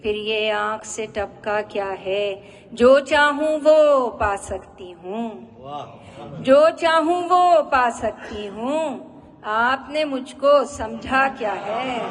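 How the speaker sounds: measured ghazal recital with drawn-out line endings; poetry recitation. Acted. Woman poet presenting her ghazal to an appreciative audience, poetry recitation. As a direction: recite each couplet line to an audience, pausing after it.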